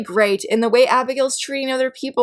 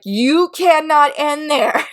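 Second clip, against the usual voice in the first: disbelief; 5 semitones higher, slower than usual. Retold or imitated. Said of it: "I was like".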